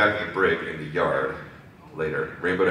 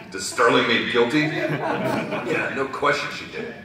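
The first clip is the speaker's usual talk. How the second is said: higher-pitched Brooklyn tough; Brooklyn accent; 8 semitones higher, 3 dB louder, slower than usual. Acted. Reserve accusing Rainbow Dash, Brooklyn accent. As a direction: put on a light Brooklyn accent. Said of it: "talk like they're from Brooklyn".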